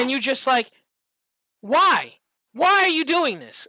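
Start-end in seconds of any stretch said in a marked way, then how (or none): 1.6-3.7 high, baffled why; pitched-up mock disbelief; exasperated plea. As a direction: throw your hands up at the other driver. Exasperated driver at a stop.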